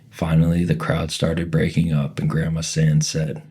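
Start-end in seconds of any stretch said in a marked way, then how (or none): none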